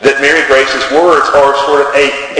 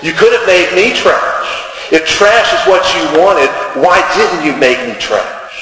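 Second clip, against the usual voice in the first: bitter challenge; 3 semitones higher, slower than usual. Retold or imitated. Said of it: "She says to God".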